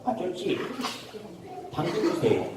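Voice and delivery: tiny, soft rabbit voice; little rabbit. Acted. Rabbit asking the grocer for carrots, small soft voice. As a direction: ask timidly, very softly, with pauses. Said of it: "토끼가 이렇게 이야기하더라고요".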